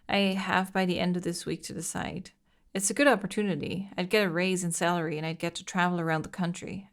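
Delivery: steady letter reading voice; reading a diary aloud. Acted. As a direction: read the diary entry evenly.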